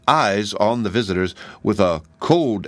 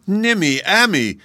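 high-pitched cry of a name; high, eager hail; 11 semitones higher, 3 dB louder than usual. A narrator's reading. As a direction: call her name out, way up high. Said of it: "cried the Tin Twins".

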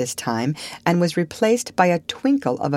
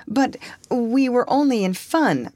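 high-pitched earnest objection; girlish insistence; persistent; 8 semitones higher than usual. A narrator's reading. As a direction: press your case, pitch lifted. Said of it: "persisted Anne".

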